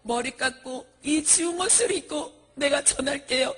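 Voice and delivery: high, tearful acted vow; acted crying plea, swelling to a wail; desperate pleading. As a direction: promise desperately between sobbing breaths. Monk acted vowing and begging tearfully.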